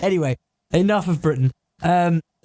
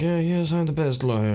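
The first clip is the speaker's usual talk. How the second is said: New York lawyer. Acted. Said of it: "just a standard New York type".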